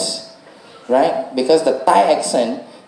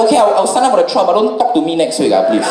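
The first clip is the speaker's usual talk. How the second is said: higher, fast grudging reply; reluctant self; 5 semitones higher, faster than usual. Retold or imitated. Comic agreeing to the coach's trial. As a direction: rush a reluctant yes. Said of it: "I was like".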